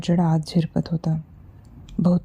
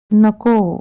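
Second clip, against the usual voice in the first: louder, higher frightened no; shout; 3 semitones higher, 6 dB louder, much slower than usual. Acted. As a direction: yell it out in panic. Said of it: "तो ओरडला". (घाबरून ओरडलेलं नको)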